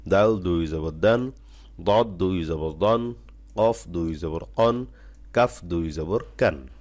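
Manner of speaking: steady slow letter-by-letter reading; teacher reading the full drill slowly; slow recitation drill. Shown as a demonstration. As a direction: read through the whole list for students to follow. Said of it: "খুব আস্তেভাবে".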